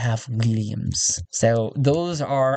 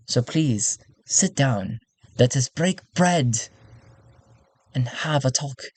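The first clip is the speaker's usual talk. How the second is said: lightly voiced courtier, measured pauses; alluring courtier. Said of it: "attach a sort of a phrase that she would often say".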